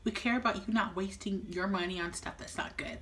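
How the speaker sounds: playful hushed whisper to viewers. Pretend. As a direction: breathe it like a secret. Mock-earnest whisper to viewers.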